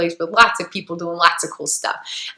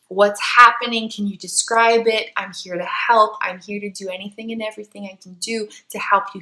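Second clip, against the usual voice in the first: calm, composed. Retold or imitated. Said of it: "with this super calm composure".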